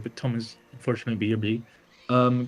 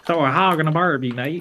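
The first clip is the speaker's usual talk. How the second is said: attempted Australian; 3 semitones higher, 3 dB louder than usual. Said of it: "That was supposed to be Australian".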